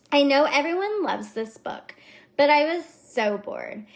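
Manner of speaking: lightly mock a bored reviewer; Valley Girl. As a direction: read it with a touch of Valley Girl. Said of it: "the Valley Girl kind of is my go-to voice".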